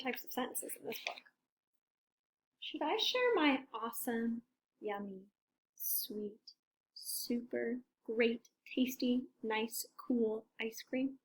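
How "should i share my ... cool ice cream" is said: softening to a slow whisper; fading dreamy whisper. Acted. Elephant listing the ice cream's charms, fading to whisper. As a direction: linger over every tasty word.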